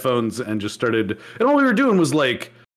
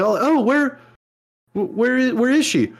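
mock surprise; 10 semitones higher than usual. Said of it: "we're like".

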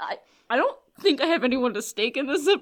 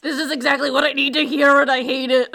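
excited; 4 semitones higher, 8 dB louder than usual. Real, not acted. Fan reacting to a painful scene.

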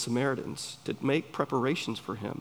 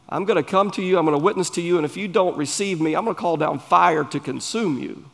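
higher, slightly louder hammed-up warning; mock threatening evangelist; 4 semitones higher, 4 dB louder, faster than usual. Preacher mimics an evangelist warning whoever rejects him, mock threatening. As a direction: play a zealous evangelist laying down a threat.

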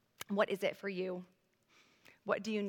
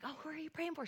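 put-on soft, higher voice to a child; gentle curious asking; 6 semitones higher, 7 dB quieter, faster than usual. Mother asking daughter about her candle, softly curious. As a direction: ask it softly and lightly, as to your child.

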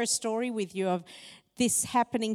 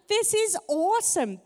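laughing delight; 10 semitones higher, 4 dB louder than usual. Real, not acted. Laughing at the story.

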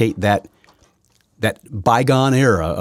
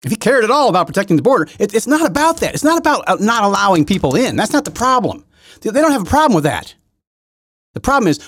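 higher and louder, hammering every not; heated rant; 12 semitones higher, 4 dB louder than usual. Real, not acted. Ranting to viewers at home about the border, heated and loud. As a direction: rail against the policy, voice climbing.

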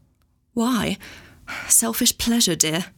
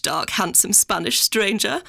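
slow, lingering, rising at the end; imitating Mummy savouring it; slower than usual. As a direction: roll it out slowly, relishing "stranger".

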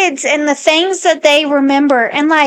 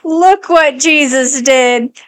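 imitating toddler; much slower than usual. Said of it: "she'll be like".

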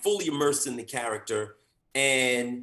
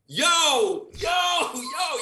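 loud, higher yo yo yo; a showrunner hailing him, louder and higher; calling out; 12 semitones higher, 5 dB louder, much slower than usual. Retold or imitated. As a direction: call across the room to get him.

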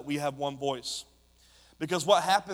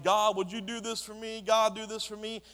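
higher-pitched imitation of needy praying; lightly mocked plea to God; mock pleading prayer; 5 semitones higher than usual. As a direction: put on a higher, begging voice. Imitates self-centred prayers of congregation.

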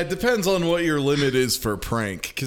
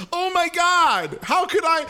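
hammed-up horrified cry, pitched way up; mock horror; 13 semitones higher than usual. Host mimicking Zoe running out in a panic, mock horrified.

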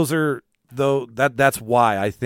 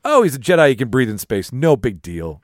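sarcastic; 2 semitones higher, 6 dB louder than usual. Retold or imitated. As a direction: scoff at the idea. Sarcastic quote of movie.

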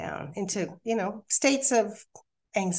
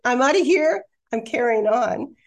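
a raised, higher burst of I'm done; half-shouted declaration of leaving; defiant exit line; 4 semitones higher, 5 dB louder than usual. Retold or imitated. Telling her boyfriend she is leaving, raised and defiant. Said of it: "who I was just gonna leave and say".

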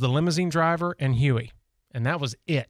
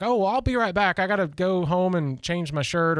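higher-pitched, casual mock excuse; breezy excuse; 6 semitones higher than usual. Party guest excusing himself before slipping away, mock breezy. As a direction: toss off a light, imitated excuse. Acting out excuse for leaving early.

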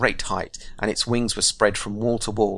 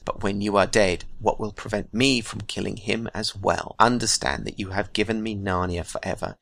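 gloating White Witch. Acted. Witch gloats over Aslan.

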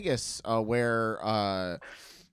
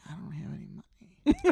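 high panicked squeak; 10 semitones higher, 3 dB quieter than usual. Retold or imitated. Panicked confession to friend.

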